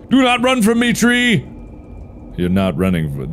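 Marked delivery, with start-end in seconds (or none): 0.1-1.5 high, hammed-up plea; mock high cry. Woodcutter calls after the fleeing tree, mock high.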